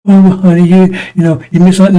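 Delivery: mock the gentle sitcom dad; mock soft Cosby-style parent. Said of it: "Cosby shit".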